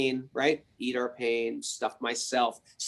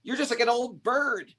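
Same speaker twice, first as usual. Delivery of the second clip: scornful demon; 6 semitones higher than usual. Acted. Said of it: "Ravana laughed".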